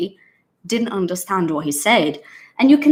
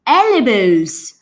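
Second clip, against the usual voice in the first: mildly irritated repeat of "ELL-uh-bulls"; mock the learner crossly insisting on his wrong word; imitated anger; 4 dB louder than usual. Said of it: "he's very angry at her".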